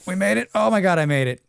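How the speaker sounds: high relieved exclamation. Real, not acted. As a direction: burst out in relief. Relief after oxygen scare.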